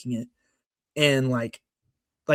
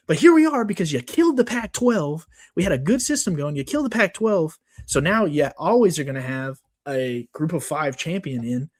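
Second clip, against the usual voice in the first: getting worked up. Real, not acted. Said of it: "I'm just getting worked up".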